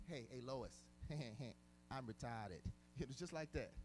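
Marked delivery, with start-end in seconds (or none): 0.1-2.6 a light, lazy cartoon-dad voice with a chuckle in the middle; Peter Griffin impression. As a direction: toss it off goofy, like a sitcom dad. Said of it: "that's how he said it".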